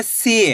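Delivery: सी with a long, stretched ee; सी, held long for learners; drawn-out long vowel. Shown as a demonstration. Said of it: "खींच के करेंगे".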